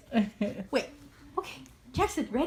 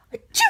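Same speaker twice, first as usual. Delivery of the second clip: fake sneeze. Shown as a demonstration. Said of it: "Like that".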